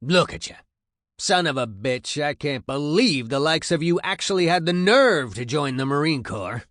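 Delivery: loud, high sergeant's harangue; disgusted tirade. A narrator's reading. Sergeant looks over the new recruits, loud disgusted berating. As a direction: tear into them with open disgust. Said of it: "he looks disgusted at what he sees".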